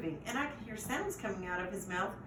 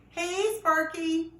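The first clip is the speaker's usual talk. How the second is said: loud, higher, slow call through the fence; bark; 9 semitones higher, 7 dB louder, much slower than usual. A narrator's reading. Neighbour dog calls over the fence, loud slow bark. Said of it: "bark at me through the fence".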